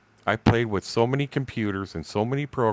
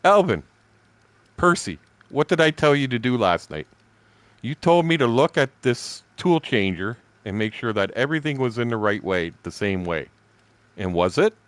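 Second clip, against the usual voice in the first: raised, louder demanding questions; pointed questioning; 3 semitones higher, 3 dB louder than usual. Retold or imitated. To coworkers about the tool changer, loud demanding questions. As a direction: press them for answers.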